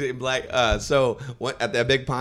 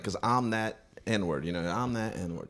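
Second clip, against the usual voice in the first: mock catchphrase; 7 dB quieter, slower than usual. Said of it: "his marquee thing is like".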